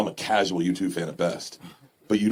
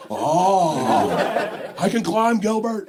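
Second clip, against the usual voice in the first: high-pitched childlike impression; hammed-up movie character voice; Arnie from Gilbert Grape; 9 semitones higher, much slower than usual. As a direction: call out high, like a simple excited boy. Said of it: "make him play Arnie from Gilbert Grape".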